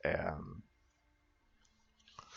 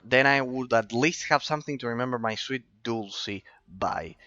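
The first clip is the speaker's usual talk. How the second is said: voicing fond farmer; 3 semitones higher than usual. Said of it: "I'll have to do all the reading myself".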